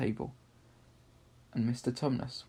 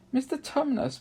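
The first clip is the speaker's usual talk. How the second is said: bawled; 13 semitones higher than usual. A narrator's reading. Lucy bawling at the crying fawn. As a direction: bawl his name to break through. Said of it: "bawled Lucy in his ear".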